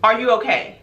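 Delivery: asked in an everyday pitch, in earnest; serious, sincere question. Real, not acted. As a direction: drop the act and ask seriously.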